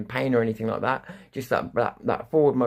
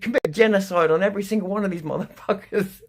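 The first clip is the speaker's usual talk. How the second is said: over-the-top order; 9 semitones higher, 4 dB louder than usual. Retold or imitated. Rogue captain orders.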